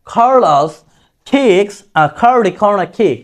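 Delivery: "কার্লোস kicks" slowly, every K puffed. Shown as a demonstration. Teacher modelling British K, slow aspirated words. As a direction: aspirate each K in "curly corner kick". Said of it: "খর মতো হলো".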